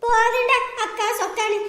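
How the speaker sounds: tired, no longer shouting; weary dismissal. Acted. Sister brushing her brother off, tired and bitter. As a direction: brush him off wearily.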